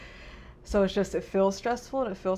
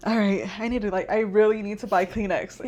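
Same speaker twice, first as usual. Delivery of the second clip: laughing hard, much louder, words through giggles; 4 semitones higher, 11 dB louder than usual. Real, not acted. Joking to her cohost about never having Kleenex, laughing loudly. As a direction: laugh your way through the line. Laughing at own crying habit.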